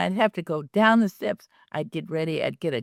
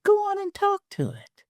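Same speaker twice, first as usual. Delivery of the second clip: inner urging voice. Retold or imitated. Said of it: "something said".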